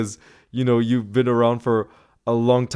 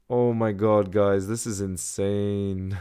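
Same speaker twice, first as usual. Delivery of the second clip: awed; 5 semitones lower, 6 dB quieter, slower than usual. Real, not acted. Overwhelmed by donations.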